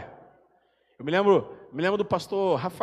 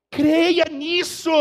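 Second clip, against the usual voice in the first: slow drawn-out repeat; 10 semitones higher, 5 dB louder, much slower than usual. Acted. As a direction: stretch each word out slowly. Preacher repeats slowly, drawn out.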